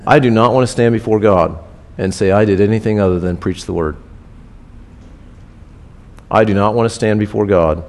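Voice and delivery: low sincere vow; solemn conviction. Real, not acted. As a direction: say it from the heart.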